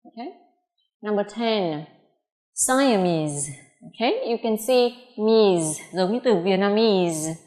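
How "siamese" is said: "Siamese" ending on a buzzing z; final z. Shown as a demonstration. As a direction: model "Siamese" with a held z at the end. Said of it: "âm cuối là âm z".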